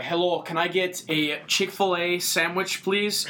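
slow, imitated northern-accent ordering; nice northern accent. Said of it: "with a nice northern accent".

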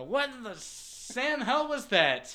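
high, slow, gruff guard voice; muffled gruff guard. Retold or imitated. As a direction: bellow it like a rough guard behind a door. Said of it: "muffled from the side of the door".

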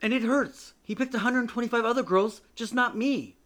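loud, high, upset pleading; patient pouring out her heartbreak to the therapist; pained outburst. Acted.

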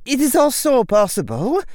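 high, loud, stern teacher's voice; stern witch professor. A narrator's reading. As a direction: speak like a strict old witch addressing a boy. McGonagall voiced by narrator.

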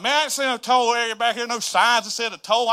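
indignant complaint at the surprise toll gate; upset. Retold or imitated. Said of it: "I'm getting upset".

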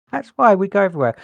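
high, fast, through a laugh. Real, not acted. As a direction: laugh it out quickly. Laughing at own joke.

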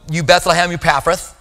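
said with bold assurance; confident. Shown as a demonstration. Preacher showing how to bluff a Hebrew name, confidently. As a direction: pronounce the hard name as if sure of it. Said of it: "gotta say it with confidence".

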